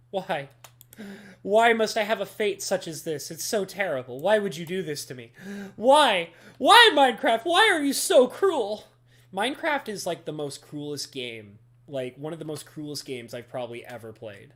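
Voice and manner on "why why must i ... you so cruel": melodramatic lament. Pretend. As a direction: wail at the heavens over a cruel game. Mock despair at Minecraft.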